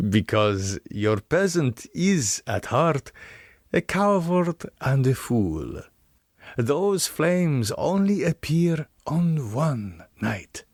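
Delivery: the Count explaining to his guest, a touch of menace; the Count, lightly voiced. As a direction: speak as the Count, measured and disdainful. The Count answers Harker.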